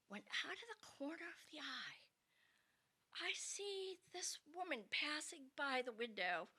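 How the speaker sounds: hushed, secretive telling; suspenseful storyteller's whisper. Real, not acted. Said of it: "whispered suspense".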